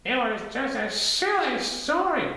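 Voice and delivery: high, slow airy voice; whistling Gopher. Acted. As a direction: brush it off kindly. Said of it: "whistled Gopher".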